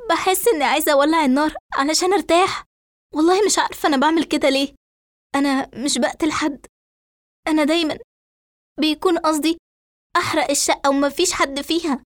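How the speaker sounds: high, tearful, rushed confession; acted weeping, words tumbling out and halting; crying. A narrator's reading. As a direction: plead to be believed through tears. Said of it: "فترد إسراء وهي تبكي".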